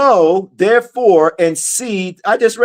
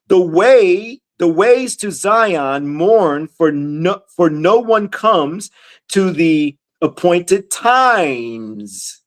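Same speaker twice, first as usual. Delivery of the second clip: slow, deliberate verse reading; scripture reading; much slower than usual. Acted. Preacher reads verse three to listeners, slow scripture reading. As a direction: read it out word by word, slowly.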